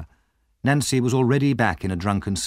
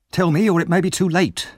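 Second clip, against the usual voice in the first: eager, higher and pushing; greedy; 9 semitones higher, 4 dB louder than usual. Acted. Missus Corney greedily pressing the dying woman. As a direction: press her greedily for the secret. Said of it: "said Missus Corney greedily".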